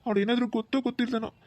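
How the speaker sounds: entrust a sister through tears; tearful brother handing over his sister; tearful pleading. Acted. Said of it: "ಕಣ್ಣೀರ್ ಹಾಕ್ಬೇಡಿ ಭವ".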